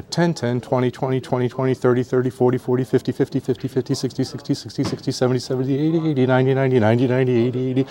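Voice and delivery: rolling run of numbers, barely a breath; monotone auctioneer counting patter; auctioneer number drill. Shown as a demonstration. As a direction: chant the tens up and back down. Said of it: "then they'll say, "Go in ten".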